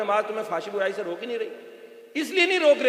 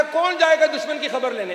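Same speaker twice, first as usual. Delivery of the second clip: louder, higher call to everyone; public announcement; 6 semitones higher, 5 dB louder than usual. Retold or imitated. Prophet asks the companions who will scout the enemy, public announcement. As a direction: put it out as a raised-voice appeal. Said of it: "आम ऐलान किया".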